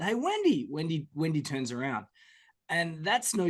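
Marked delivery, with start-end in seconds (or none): 0.0-0.7 high call of a name; mock yell. Calling to Wendy across the mall, mild mock yell. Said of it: "if I yell out".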